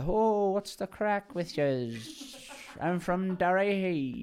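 slow, high Derry accent; a lightly done Derry accent. Shown as a demonstration. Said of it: "I did a Derry accent".

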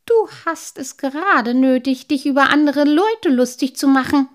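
grumpy rebuke at full voice; gruff. A narrator's reading. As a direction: answer back testily, offended. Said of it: "erwiderte unwirsch".

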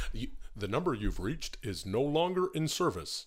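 slow lightly robotic phone recording. Acted. Answering as the first robot, slow lightly robotic recording. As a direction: read it like a disconnected-line message. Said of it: "the first robot".

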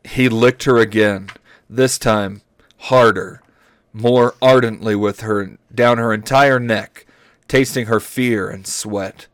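measured, deliberate reading aloud; story narration. Acted. Host reads dinosaur romance to friends, story narration. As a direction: read each phrase out carefully.

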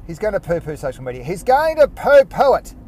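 teasing listener voice; mock listener. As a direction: imitate a suspicious listener. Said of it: "some of you are probably thinking".

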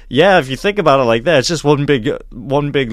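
lively put-on British accent. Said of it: "give him my British accent".

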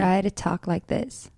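soft repeat of the line in a British accent; a learner's British accent, repeated; copying a British accent. Shown as a demonstration. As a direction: echo her British accent back. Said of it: "she's so much better than me".

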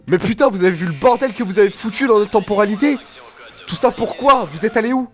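high, fast furious rant; angry shouting. Acted. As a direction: yell at them in outrage. Furious time traveller scolds friends.

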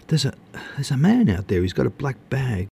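high-pitched, stumbling alarm; alarmed squeal. A narrator's reading. Woman reports a man outside to Max, high and alarmed. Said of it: "Her squeal pierced the serenity".

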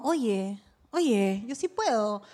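quiet self-assurance. Retold or imitated. Retold quiet self-talk.

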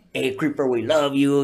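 a mild, polite version of the fan; sweet fan voice. Retold or imitated. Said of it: "he wasn't talking like that".

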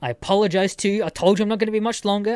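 fast mock-indignant protest; snapping. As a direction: imitate a man snapping back, rushed. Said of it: "I just watch him snap".

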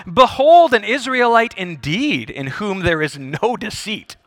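grand mock proclamation, loud opening that settles; sarcastic. Jesus greeting the approaching Nathanael, sarcastic. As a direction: announce him with tongue in cheek. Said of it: "This is Jesus' way of being sarcastic".

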